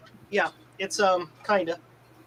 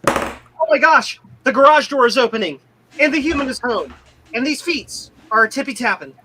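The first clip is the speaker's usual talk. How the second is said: excited dog voice; 7 semitones higher, 5 dB louder than usual. Pretend. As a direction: gush like an eager dog at the door.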